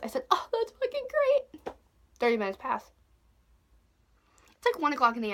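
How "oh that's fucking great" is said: sarcastic. Retold or imitated. Sarcastic reply to the thirty-minute wait.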